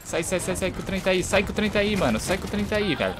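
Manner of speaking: high, urgent yelling to get out; panicked shouting. Real, not acted. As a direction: shout the warning fast. Train coming at him in game.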